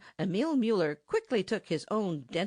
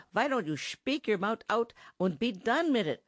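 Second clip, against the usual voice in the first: angry; 6 semitones higher than usual. Acted. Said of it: "said Emil Müller angrily".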